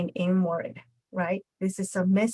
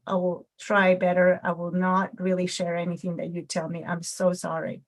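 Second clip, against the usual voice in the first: soothing apology; 2 semitones lower than usual. Retold or imitated. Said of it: "something that will set me at ease".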